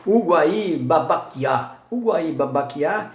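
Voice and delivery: Uguaí Babaquiá spelled out slowly, each syllable clear; slow careful naming. Shown as a demonstration. Teacher says Uguaí Babaquiá slowly to his class. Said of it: "Por exemplo".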